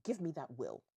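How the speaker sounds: mildly annoyed, ending in a loud demand; exasperated mom laying down the law; annoyed mother. Acted. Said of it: "Zita is just annoyed".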